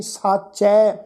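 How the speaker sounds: ਸਾਚੈ with a long open "ai" ending; dulavan vowel. Shown as a demonstration. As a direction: draw out the final ai in ਸਾਚੈ. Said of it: "ਚੱਚੇ ਤੇ ਦੁਲਾਵਾਂ ਦਾ ਪਾਠ ਹੈ ਜੀ". (ਸਾਚੈ, ਚੱਚੇ ਤੇ ਦੁਲਾਵਾਂ ਨਾਲ)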